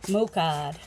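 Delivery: Mocard with a New England accent, r dropped: moh-cahd. Real, not acted. Vlogger reading a label, slipping into New England accent. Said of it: "my New England accent kinda got lost there".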